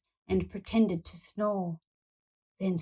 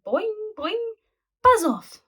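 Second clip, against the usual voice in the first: annoyed shoo; 12 semitones higher than usual. A narrator's reading. Brachiosauruses shooing the boy off the bed. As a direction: bounce then shoo him away. Bouncing dinosaurs shoo him.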